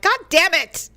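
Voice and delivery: high, sudden mock curse; Tourette's-like outburst. Woman curses herself after sneezing twice, mock involuntary outburst. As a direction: blurt it out as if involuntary, pitch jumping up. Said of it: "just like it's Tourette's".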